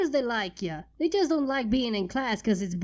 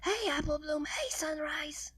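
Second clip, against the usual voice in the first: Scootaloo greeting; 4 semitones higher, 7 dB quieter than usual. A narrator's reading.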